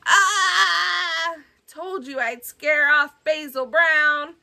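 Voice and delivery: squeaky boasting creature; proud little monster crowing; high monster voice. Acted. Fangface brags to Billy about scaring Basil, high and proud.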